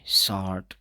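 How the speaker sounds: शॉर्ट said "shaat" with a long vowel; शॉर्ट with the r silent, vowel held; long vowel demo. Shown as a demonstration. Teacher repeating शॉर्ट with a long vowel. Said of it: "इसको हम थोड़ा लंबा करके बोलेंगे".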